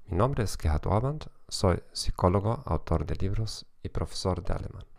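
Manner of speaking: Spanish with a German accent; German-accented Spanish, steady lecture pace. Real, not acted. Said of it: "con acento alemán".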